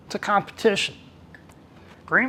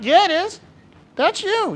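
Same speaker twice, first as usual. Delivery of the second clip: teasing insistence; 13 semitones higher, 4 dB louder than usual. Retold or imitated. Group teasing Michael together.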